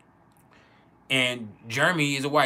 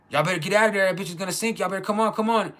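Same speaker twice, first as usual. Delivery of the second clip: raised, higher voice hurrying friends off the boat; urgent calling out; 5 semitones higher than usual. Retold or imitated. Granville in the water yelling at the boys to get out, urgent high call.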